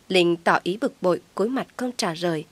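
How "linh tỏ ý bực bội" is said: ordinary delivery, nothing marked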